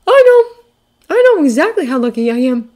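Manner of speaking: put-on high, heartfelt boyish voice; sincere kid, high and emphatic; small sincere voice. A narrator's reading. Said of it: "the sincerity in his small voice".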